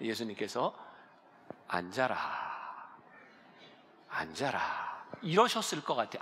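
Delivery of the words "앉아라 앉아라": hushed, very quiet small voice, barely above a whisper. Imagining how Jesus spoke to the people, very quietly. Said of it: "아주 조용히".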